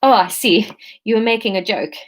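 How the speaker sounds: a hint of South African; lightly voiced South African customer; light South African accent. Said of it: "we can do Aleph as South African".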